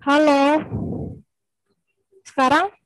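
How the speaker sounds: calling out loudly over a bad connection. Real, not acted. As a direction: raise your voice to be heard. Checking if audio comes through.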